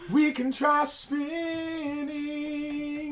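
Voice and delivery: high-pitched drawn-out squeal; childlike mock quote. Teasing the others with a movie line, childlike squeal. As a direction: stretch the last word out high.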